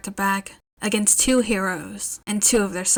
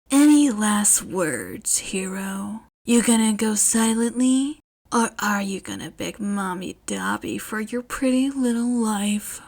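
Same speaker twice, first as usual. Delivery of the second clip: menacing growl. Acted. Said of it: "Dobby growled".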